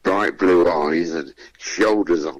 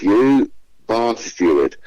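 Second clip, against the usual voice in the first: muttered insult; 2 semitones higher, slower than usual. Retold or imitated. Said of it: "the way he said it".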